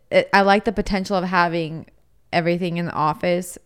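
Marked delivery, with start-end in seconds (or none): 0.1-1.9 whisper. Real, not acted. Unvoiced aside.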